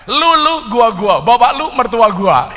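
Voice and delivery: teriakkan lantang, lebih tinggi; seruan logat Betawi. Shown as a demonstration. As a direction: serukan gaya Betawi kepada penonton. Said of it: "sampaikan kepada mbak-mbaknya". (ajarkan logat Betawi ke penonton, lantang dan tinggi)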